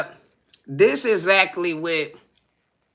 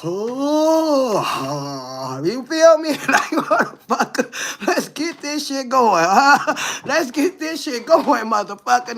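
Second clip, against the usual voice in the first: high, pumped-up dare; hammed-up itching to fight; mock eager taunt; 4 semitones higher, slower than usual. Egging on the boyfriend who bloodied her nose, pumped up. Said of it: "It was just like".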